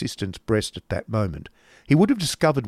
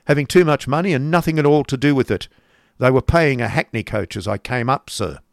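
put-on mildly raised, emphatic old uncle voice; lightly voiced grumbling uncle; disapproving uncle; 4 semitones higher, 5 dB louder than usual. Uncle complaining about money wasted on a coach, disapproving.

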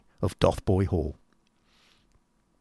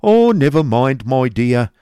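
soothing; 4 semitones higher, 8 dB louder, slower than usual. Acted. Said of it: "in a soothing manner".

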